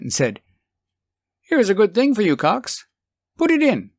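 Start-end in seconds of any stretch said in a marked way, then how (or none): 1.4-3.9 eager. Acted. Richards hands editor document.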